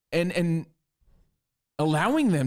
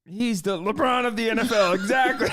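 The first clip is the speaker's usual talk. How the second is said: high, hammed-up croaky-crack impression; playful high-voiced mimicry, breaking into laughter; Mahomes; 7 semitones higher than usual. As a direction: exaggerate a cracking voice, pitched way up. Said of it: "You were slipping into Mahomes".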